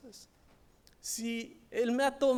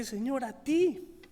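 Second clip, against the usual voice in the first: crying; 4 semitones higher, 5 dB louder than usual. Retold or imitated. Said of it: "comencé a llorar".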